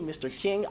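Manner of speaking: King, ending in ng in place of m; kids' mispronounced name. Shown as a demonstration. Kids botching teacher's name, King with an ng ending. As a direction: say King where Akeem is meant. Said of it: "so many variations of my name".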